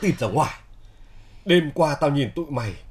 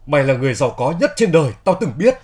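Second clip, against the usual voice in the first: emphatic praise; 6 dB louder, faster than usual. Acted. Heartfelt admission of friend's worth.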